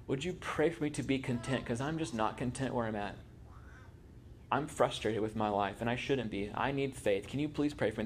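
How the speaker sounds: pleading softly. Retold or imitated. Believer asking church for prayer, soft humble plea. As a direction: confide it quietly, asking help.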